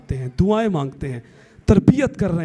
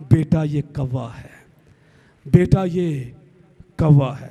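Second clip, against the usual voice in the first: loving mother; 3 semitones lower than usual. Retold or imitated. Young mother fondly teaching her toddler the word. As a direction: coo it to a small child. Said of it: "تجھے پیار سے".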